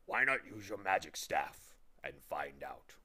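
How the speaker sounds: words around an eyedropper; mouth full. A narrator's reading. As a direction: talk past something in the mouth. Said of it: "with an eyedropper in his mouth".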